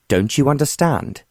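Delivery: a contained narrator's scream. A narrator's reading. Wingate losing patience with John, mild scream. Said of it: "Wingate screamed".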